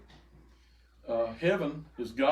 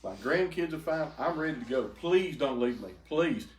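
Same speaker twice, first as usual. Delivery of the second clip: slow pleading; 4 semitones higher than usual. Retold or imitated. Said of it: "And I said".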